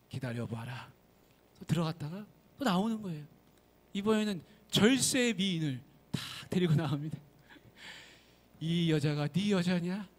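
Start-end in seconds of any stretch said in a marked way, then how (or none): 0.1-0.9 lower, quieter, lightly rising spirit voice; a hint of a calm old sage; mountain god. Mountain god telling him to wait again, low and soft. 8.6-10.1 slow, stately questioning spirit; mountain god. Acted. Mountain god offering the beauty, slow and solemn.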